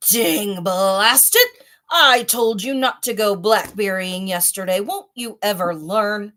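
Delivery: lion scolding himself, very loud; angry roaring. Acted. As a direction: roar it at yourself in a rage. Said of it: "angry animal roaring".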